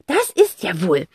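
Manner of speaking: huffy aunt scolding; mock grumble; a touch of scolding; mild grumbling. A narrator's reading. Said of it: "schimpft sie".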